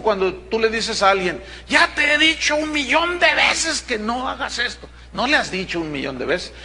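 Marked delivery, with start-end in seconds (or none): 1.7-4.9 exasperated scolding. Retold or imitated. Exasperated repeat to someone.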